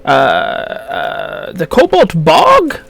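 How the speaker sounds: put-on high, helpful old gnome voice; old gnome shopkeeper.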